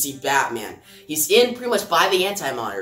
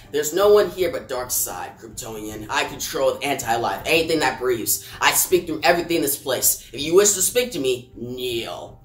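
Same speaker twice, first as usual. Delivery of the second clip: lower, menacing villain voice, a touch darker than his own; lightly voiced Darkseid; 5 semitones lower than usual. Darkseid to kneeling Superman, lightly voiced low menace. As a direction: drop low and loom like a tyrant god. Reading Darkseid's comic lines.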